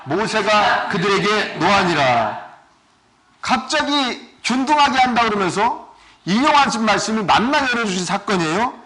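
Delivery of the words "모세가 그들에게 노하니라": slow, measured Bible reading; scripture reading. Acted. Pastor reading the Exodus passage to the congregation, slow and solemn. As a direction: lay each phrase of the verse down slowly. Reads scripture aloud slowly.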